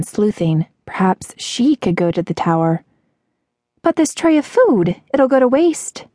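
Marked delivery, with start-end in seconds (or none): 3.8-6.1 put-on high girlish protest; high-pitched concerned waitress; worried waitress. A narrator's reading. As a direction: fret about it in a high voice. Distressed waitress voiced in story.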